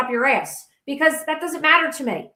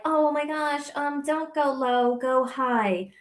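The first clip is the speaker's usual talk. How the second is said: mock advisers; slower than usual. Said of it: "the people are like".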